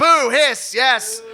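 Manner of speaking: loud, hammed-up boo and hiss at the villain; playful crowd-style boo, hiss; mock booing. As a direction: jeer him like a pantomime baddie.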